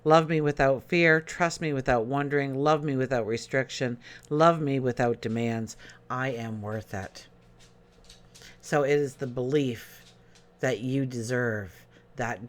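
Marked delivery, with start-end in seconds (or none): 0.0-7.3 mantra reading. Acted. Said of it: "The mantra is".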